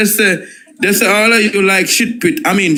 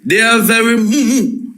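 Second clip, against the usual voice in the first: Caribbean accent. Shown as a demonstration. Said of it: "let me say it in my Caribbean accent".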